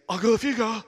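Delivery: high, loud, blubbering voice; mock tearful. Crying man pleading with his friend, loud mock tearful blurt. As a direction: blurt it out as if through sobs. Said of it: "and I'm crying even more".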